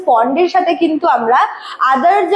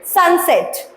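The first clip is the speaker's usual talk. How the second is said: "সানসেট" with both syllables equally stressed; much slower than usual. Shown as a demonstration. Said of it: "দুটোই হচ্ছে ইকুয়ালভাবে stressed".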